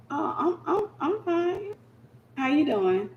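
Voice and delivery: soft, high, holding back tears; soft teary stammer; choked up. Retold or imitated. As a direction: fake fine while hurting. Hurt woman forcing composure.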